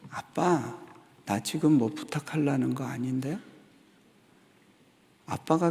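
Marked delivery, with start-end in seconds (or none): 0.1-3.4 a hint of a serious little boy; son's earnest reply. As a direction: answer straight-faced, like a child protesting. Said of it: "그때 아이가 정색을 하면서". (정색한 아이 말투를 살짝)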